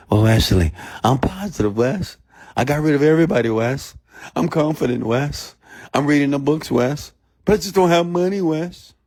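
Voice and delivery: high, singsong mimicry of excuse-makers; mocking imitation, pitch climbing to the end; mock complainer. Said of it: "when I hear you beautiful people tell me that".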